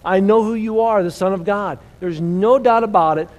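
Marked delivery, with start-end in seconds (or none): 0.1-1.8 retold cry, raised and higher; demons crying out. Preacher telling how even the demons cry out, a retold loud cry. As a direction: preach the demons' outcry with a louder, lifted voice. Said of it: "even the demons cry out".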